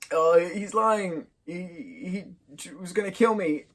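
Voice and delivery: high, imitated protest; acted tattling kid. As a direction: protest like a kid telling on a brother. Acts out Greg accusing his brother.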